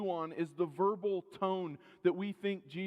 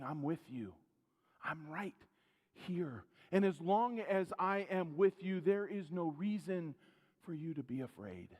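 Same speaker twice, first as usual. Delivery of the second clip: reassuring. Acted. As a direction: comfort a frightened friend. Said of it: "What he was saying was".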